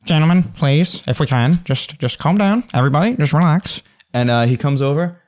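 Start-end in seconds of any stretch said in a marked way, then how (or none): 0.1-3.8 lightly voiced mediator; calming NPC. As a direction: settle the room. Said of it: "Nelson steps in and he goes".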